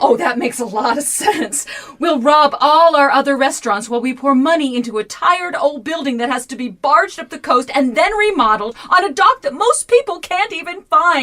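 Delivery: mock the husband's foolish plan; scornful wife tearing into the deal; sarcastic. Nancy mocks Malcolm's plan.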